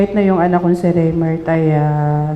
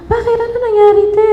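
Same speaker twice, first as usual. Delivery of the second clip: high, louder, alarmed asking; startled question; 5 dB louder, faster than usual. Retold or imitated. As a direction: ask in shock what happened. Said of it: "Nagulat din siya".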